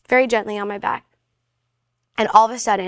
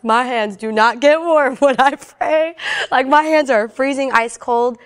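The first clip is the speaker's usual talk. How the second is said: amused disbelief; 3 semitones higher than usual. Retold or imitated. Retold amused retort to pastor.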